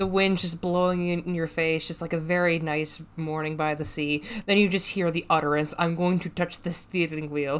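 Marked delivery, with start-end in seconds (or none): 5.8-7.6 put-on Russian accent in English. In a tabletop game, voicing an utterance the players hear, in a Russian accent. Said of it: "at the sound of a Russian accent".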